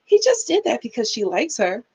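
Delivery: lightly mocked cutesy excuse; a touch of indulgent sweetness; acting like it's cute. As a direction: imitate a mother brushing it off as adorable. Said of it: "she was saying it like it was cute".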